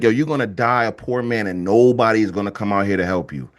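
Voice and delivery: low voice of doom; low, measured retold sentence; grave snake. Snake pronounces the man's doom.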